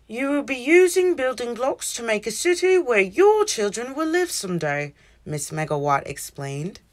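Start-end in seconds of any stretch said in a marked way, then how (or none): 0.1-4.9 teacher voice. A narrator's reading. Teacher voice explaining to class.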